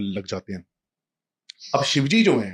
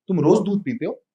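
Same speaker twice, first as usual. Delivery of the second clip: put-on curious child; 6 semitones higher, 4 dB louder than usual. Child asks friend, voiced.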